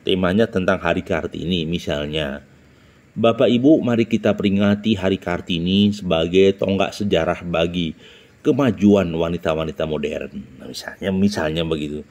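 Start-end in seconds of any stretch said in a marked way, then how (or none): 3.2-10.4 measured public-address delivery, opening firmly; example speech intonation. Shown as a demonstration. Trainer models a Kartini Day speech, formal intonation. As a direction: address an audience formally, then settle. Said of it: "Misalnya begini".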